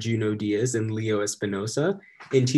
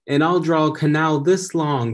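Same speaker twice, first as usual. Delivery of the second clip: put-on excited kid; 5 semitones higher, 7 dB louder than usual. Kid boasting about drawing.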